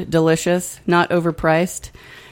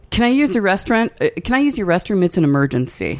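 hurried stranger; 3 semitones higher, faster than usual. Retold or imitated. Imitating the stranger rushing into the restaurant, fast and urgent. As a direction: blurt it out like you're desperate for the toilet. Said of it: "he says to the, the, uh, server".

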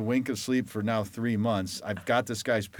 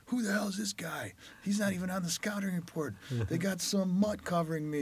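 much higher, half-whispered sneer at the rookie; mock trash talk; 10 semitones higher than usual. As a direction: mimic a cocky senior sizing up a nobody. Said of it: "he's just talking smack right from the get-go".

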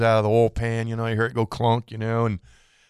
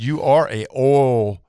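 incredulous scolding; 2 semitones higher, 4 dB louder than usual. Retold or imitated. Customer scolds oil change shop.

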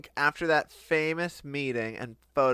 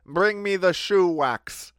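mock Russian husband; 2 semitones higher, 7 dB louder than usual. Joke voice of tired Russian.

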